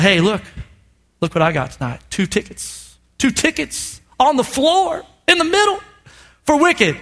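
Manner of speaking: hushed then rising reveal; teasing reveal. Retold or imitated. Pastor tells his wife about the tickets, hushed then rising. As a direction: build a secret into a big surprise.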